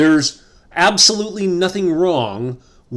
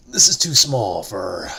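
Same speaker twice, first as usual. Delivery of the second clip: breathy unvoiced whisper; hushed conspiratorial aside; 6 semitones lower than usual. Real, not acted. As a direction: secret whisper to the camera.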